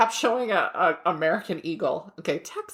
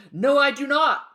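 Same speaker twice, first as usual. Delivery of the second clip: higher, deadpan hammed-up answer; stoner lawyer; 7 semitones higher than usual. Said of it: "and he's like".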